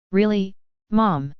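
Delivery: slow, dry sarcastic question. A narrator's reading. Daughter to oblivious mother, slow dry sarcasm. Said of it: "my sarcasm not evident to her".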